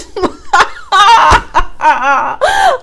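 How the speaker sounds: loud shrieking laugh. Real, not acted. Laughing at her creepy relative's line, loud shrieking laugh. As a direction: burst out laughing hard. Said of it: "Just all creepy".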